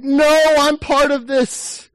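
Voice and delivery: 3 insist on belonging, from the heart; 1 determined outburst. Acted. Heart answering inner doubt.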